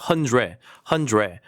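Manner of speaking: "hundred" as "hun-dre", final D left off; practice pronunciation. Shown as a demonstration. Teacher drilling learners on the R, practice pronunciation. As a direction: draw out the "re" in "hundred". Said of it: "이렇게 발음을 하시면 돼요".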